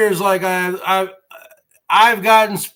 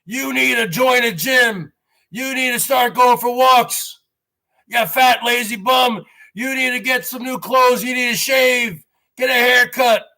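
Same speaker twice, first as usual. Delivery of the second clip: drill-sergeant trainer; 3 semitones higher than usual. Retold or imitated. Trainer yelling at the lazy vlogger to shape up. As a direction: get in his face like a drill sergeant. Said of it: "I need Quinn with two N's to get up in my face and say".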